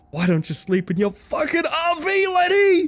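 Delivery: strained, very high-pitched outburst. Playing a game, answering a character's offer to sleep nearby, in a strained voice. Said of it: "I have a strained voice right now".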